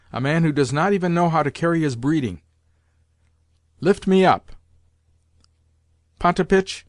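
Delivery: lightly voiced commanding old lady; imperious grandmother. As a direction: rule over son and servants. Grandmother scolds and commands servants.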